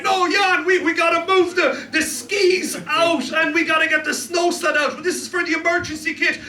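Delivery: frantic urging. Retold or imitated. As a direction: yell at him to clear the cupboard, half laughing. Acted quarrel with Dutch friend.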